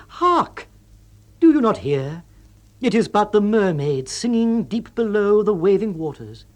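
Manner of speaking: high, ringing, overblown poetic declaiming; hammed-up romantic exclamation at the sea; mock poetic rapture. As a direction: declaim it like a swooning romantic poet. Mock poetic speech at seashore.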